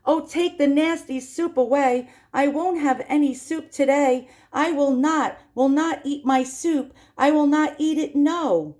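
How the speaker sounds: high, loud bratty refusal; whiny child. Acted. Augustus refusing his soup, high loud whine. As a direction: whine it like a spoiled boy. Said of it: "he threw away the spoon and screamed".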